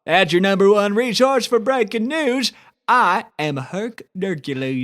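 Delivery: pompous mock news anchor; newscaster. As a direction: open the broadcast like a self-important anchor.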